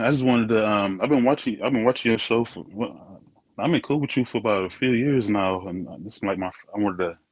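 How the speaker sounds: muffled earbud mic, dull sound; like talking through a door. Real, not acted. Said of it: "next minute you sound like you muffled".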